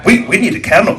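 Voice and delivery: put-on high Middle Eastern accent, eager. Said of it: "he says".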